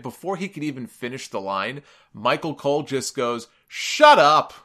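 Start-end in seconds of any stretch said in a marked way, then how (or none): 3.7-4.5 loud, disgusted snap. Retold or imitated. Cole cutting off the heel announcer, disgusted. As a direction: spit it out like you can't stand him. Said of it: "in the most disgusted tone that you've ever heard".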